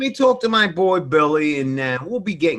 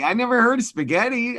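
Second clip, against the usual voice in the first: put-on Boston accent; 6 semitones higher than usual. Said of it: "Boston accent".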